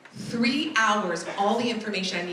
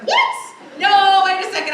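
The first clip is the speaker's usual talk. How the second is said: much higher, much louder what; stunned disbelief; 9 semitones higher, 10 dB louder than usual. Retold or imitated. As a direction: gasp in total disbelief. Her stunned reaction.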